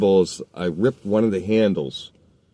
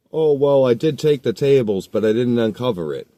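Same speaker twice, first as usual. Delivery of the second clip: put-on evasive kid; 4 semitones higher, 4 dB louder than usual. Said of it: "the kid answers".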